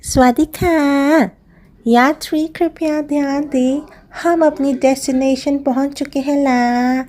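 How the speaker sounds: mock PA arrival announcement; playful tour guide call; boat announcer voice. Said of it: "get this dialogue out of my system". (नाव की घोषणा वाली आवाज़)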